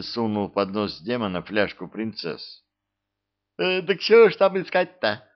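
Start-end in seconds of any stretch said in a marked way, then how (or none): 3.6-5.2 high, loud delighted exclamation. A narrator's reading. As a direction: brighten up with delight. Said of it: "обрадовался Абдулла".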